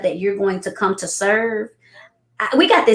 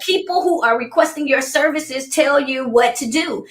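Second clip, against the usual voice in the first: much higher, giddy through tears of laughter; laughing disbelief; 7 semitones higher than usual. Retold or imitated. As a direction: squeal it like you can't believe him. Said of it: "I was like".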